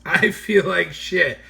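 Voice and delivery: light mock hungover repeat; repeated hungover line. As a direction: repeat it, savouring the moan. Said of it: "That was his exact words".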